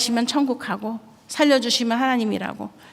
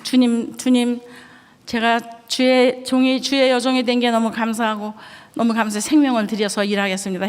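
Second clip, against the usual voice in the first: fervent tearful prayer. Retold or imitated.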